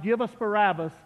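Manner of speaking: a mild call of the crowd, not truly shouted; crowd cry. Retold or imitated. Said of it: "while the crowd cried".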